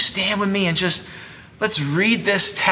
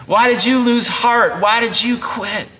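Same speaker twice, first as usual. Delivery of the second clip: mock blaming rant; 4 semitones higher than usual. Leader blaming the discouraged people, mock angry. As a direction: scold them like a blaming boss. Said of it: "He, he doesn't say".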